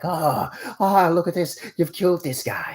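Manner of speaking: villain imitating startled onlookers; mock alarmed bystanders. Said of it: "people are gonna come running and be like".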